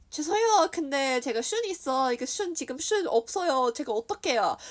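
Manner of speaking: high, loud, rushed Korean; mock-panicked rush to explain; retold flustered plea. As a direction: blurt it out in a fluster.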